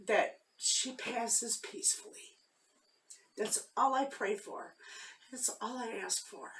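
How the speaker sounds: holding back tears while speaking softly; tearful, near crying. Real, not acted. Telling viewers her mother is dying, quietly tearful. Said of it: "without breaking down a little".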